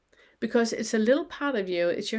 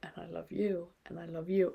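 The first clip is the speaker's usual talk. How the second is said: much softer, almost inner voice; a soft, inward loving murmur; silently thinking it; 7 dB quieter than usual. Shown as a demonstration. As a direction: say it softly as if only thinking it. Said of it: "And you just think it".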